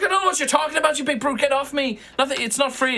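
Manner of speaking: high, indignant halfling voice; halfling pickpocket. Acted. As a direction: protest innocence, high and shrill. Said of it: "And she's just like".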